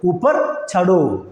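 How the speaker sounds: ഊപ്പർ ചടോ very slowly, syllable by syllable; slow repeat. Shown as a demonstration. Teacher models ഊപ്പർ ചടോ slowly for Malayalam learners.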